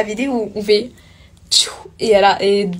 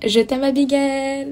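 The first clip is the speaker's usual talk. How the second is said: sweet on request; 5 semitones higher, slower than usual. Shown as a demonstration. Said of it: "Tu pourrais dire je t'aime Abigail".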